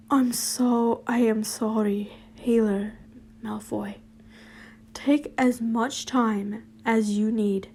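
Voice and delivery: a hint of a polite superior; posh boss. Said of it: "everyone else is more posh".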